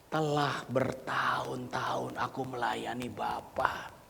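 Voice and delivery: slow whisper of the son's words; whispered son's quote. Acted. Elder son's complaint, whispered by the preacher. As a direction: say it under your breath. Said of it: "Anak sulung ini berkata".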